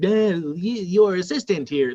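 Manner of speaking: slow, synthetic virtual-assistant-style computer voice. Showing the voice given to a computer assistant, computer assistant voice. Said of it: "they have like a computer voice".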